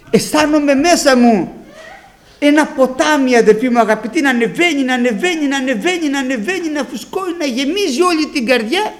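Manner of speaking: fervent, high-pitched preacher's testimony; rapturous testimony. Real, not acted. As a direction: let each repeated phrase surge like rising water. Testimony of Spirit rising inside him.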